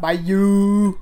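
loud amused echo of the name; amused loud repeat. Real, not acted. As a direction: call the name out with glee.

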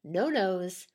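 deliberate ghost-story read, pausing between details; measured storytelling read-aloud. Real, not acted. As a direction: let each eerie detail land separately. Reads written ghost story aloud.

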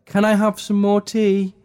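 squeaky, ridiculous high-pitched voice; silly high voice. Shown as a demonstration. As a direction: pitch it up until it sounds absurd. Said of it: "you modify so it sounds really ridiculous".

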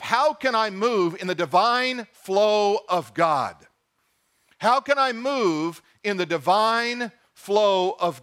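How can I move said slowly and earnestly; slow, sincere question; slow earnest self-question. Shown as a demonstration. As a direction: ask it slowly, as a real prayer. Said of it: "ask yourself".

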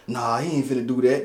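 low, soft aside; quiet, dropped-down dismissal; retold doubtful thought. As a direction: say it under your voice, reassuring yourself. Retells his doubting inner thought.

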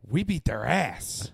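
slow mock tough-guy boast; a hint of a stern old veteran; imitating a gruff boast. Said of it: "looked me dead in my eyes".

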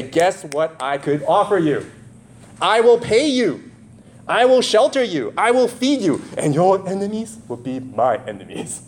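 voiced tempting patron, rising high; a hint of a mob boss making an offer; godfather offer. Preacher voicing tempting Corinthian patron.

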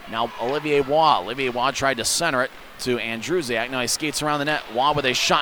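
rapid hockey play-by-play. Real, not acted. Live hockey radio call.

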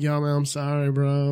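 level, dopey stoned apology; slow stoned talk. Retold or imitated. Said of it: "I'm talking all slow".

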